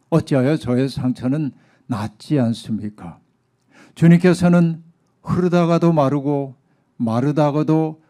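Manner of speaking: mildly reproachful plea to God; emphatic prophet's complaint, easing off toward the end; resentful. Acted. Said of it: "하나님 앞에 원망스럽게 이렇게 얘기합니다". (원망스럽게 하소연하듯)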